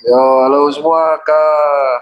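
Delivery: talking after dental anesthesia; slightly slurred from numbed mouth; numb mouth speech. Real, not acted. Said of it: "jadi agak kayak gini ngomongnya".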